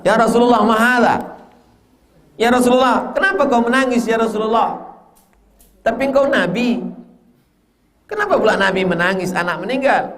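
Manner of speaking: Sa'ad asking. Retold or imitated. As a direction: plead with the Prophet in astonishment. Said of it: "Faqala Sa'ad, Sa'ad berkata".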